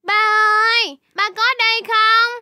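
searching call to dad; calling out for father. Acted. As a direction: call out to find your dad. (cất tiếng gọi tìm ba)

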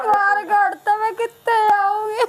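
sobbing through the question; half-cried plea, voice wet with tears; crying complaint. Acted. Daughter-in-law complaining to her husband, crying.

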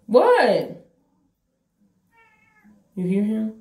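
calling to the cat, high and loud; high pet voice. Real, not acted. Talking to her cat, high and loud.

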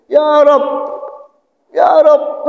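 high, repeated mock cry; pained crying out. Sinner crying to his Lord from pain, mock wail. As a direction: call out high as if hurt. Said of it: "Nangis, sakit rupanya".

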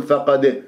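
wrong فقد with a short, slack final i; snatched kasra. Shown as a demonstration. Teacher showing what to avoid, snatched vowel on فقد. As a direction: cut short the i after the d of فقد. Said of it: "لا تختلس، ما تقول".

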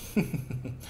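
soft acted gloating laugh; villain chuckle. King Cold walks up to despairing foe, soft chuckle. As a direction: chuckle softly at a doomed foe.

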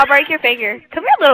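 mock threat. Playful threat chasing friend.

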